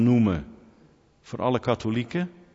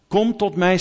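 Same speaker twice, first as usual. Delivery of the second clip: calling out; 6 semitones higher, 5 dB louder than usual. Acted. Preacher voicing Jesus inviting.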